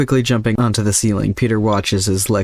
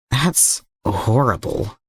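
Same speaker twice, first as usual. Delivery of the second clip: appalled; 3 semitones higher, much slower than usual. Acted. Peter reacts to Slade's memory.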